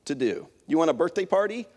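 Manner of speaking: a nasty friend's snappy comeback. Retold or imitated. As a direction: throw it back at her, mean and mocking. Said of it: "in a nasty tone".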